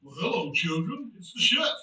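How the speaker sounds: lightly voiced cartoon chef, low greeting; Chef impression. Streamer running through soundbite impressions, Chef voice. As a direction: drop low, then lift on the last word. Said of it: "that one's chef".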